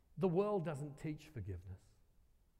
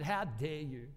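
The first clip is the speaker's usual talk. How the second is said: mildly raised, affronted retelling; retold indignant challenge; 4 dB louder, slower than usual. Woman confronts the speaker outside the church, indignant. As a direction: imitate an indignant accuser, short of shouting. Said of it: "Everyone seems to shout at me".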